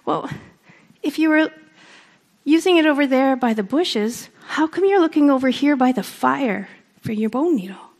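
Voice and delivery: a hint of a baffled owl asking why; perplexed owl. Owl, perplexed, asks Coyote why he searches by the fire. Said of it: "and he says".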